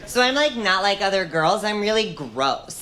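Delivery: put-on breathy baby-girl act. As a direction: coo it like a fake-innocent girl. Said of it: "I hate that voice".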